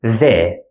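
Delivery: the with a voiced th as in this. Shown as a demonstration. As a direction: buzz the th. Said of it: "voiced English T H sound".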